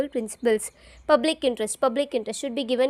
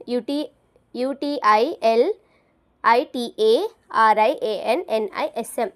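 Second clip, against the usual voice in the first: spelling it out. Shown as a demonstration. Teacher spelling utilitarianism to students, letter by letter. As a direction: spell each letter out for the class.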